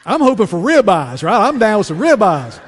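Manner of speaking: high, loud, laughing through the words. Real, not acted. Preacher laughing as he tells the congregation. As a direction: crack up telling it. Laughing over pig's feet.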